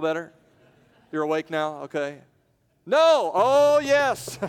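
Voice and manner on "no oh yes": much higher, loud bickering; shouted back-and-forth. Acted. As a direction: fling the words back and forth. Mock argument at the door.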